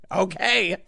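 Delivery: a flat uh-huh, then a laugh; unimpressed acknowledgement; deadpan skeptical. Retold or imitated. Staring at the news story, deadpan skeptical. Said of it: "I'm just staring at this like".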